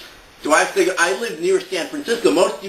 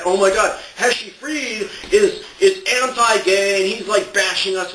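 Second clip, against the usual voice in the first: higher, hammed-up outraged whining; mock crying complaint; 5 semitones higher than usual. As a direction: imitate an aggrieved online complainer. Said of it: "don't go crying all over Facebook".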